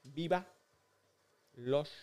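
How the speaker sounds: slow, soft, drawn-out words; slow mouthing. Shown as a demonstration. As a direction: mouth each word slowly for lip reading. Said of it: "mouthing the phrase to a friend".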